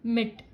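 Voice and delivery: मिट alone, given a little extra force; slightly stressed syllable. Shown as a demonstration. Teacher isolating the stressed syllable, मिट said with slight emphasis. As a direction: press lightly on मिट. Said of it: "ये मैंने थोड़ा जोर से बोला".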